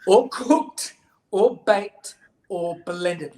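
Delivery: loud, slow list of objections; hammed-up picky-eater complaint; emphatic refusal. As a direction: punch each item crossly. Betty continues her refusal list.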